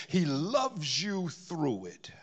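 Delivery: slow, tender whisper. Acted. Preacher assuring the congregation of God's love, slow whisper. Tender climax of sermon point.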